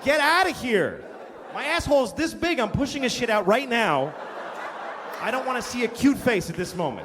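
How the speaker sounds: put-on loud strained shout at the kid; exasperated mock yell from the toilet. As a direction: shoo her out mid-strain. Yelling at daughter on toilet.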